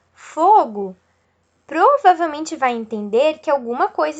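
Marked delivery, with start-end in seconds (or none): 0.1-0.9 1 exclaimed fire. Shown as a demonstration. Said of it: "ao você dizer".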